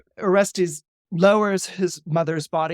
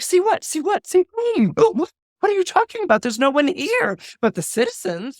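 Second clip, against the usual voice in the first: panicked questions; 11 semitones higher than usual. Acted. Electra baffled by her raving brother, panicked and rushed. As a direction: fire questions at him in alarm.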